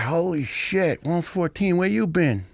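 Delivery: put-on the big medic spotting an old friend; imitating surprised medic. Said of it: "He's like".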